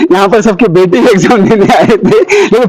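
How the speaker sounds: chuckling through the words; amused, laughing while talking. Real, not acted. Jokes about the father idiom.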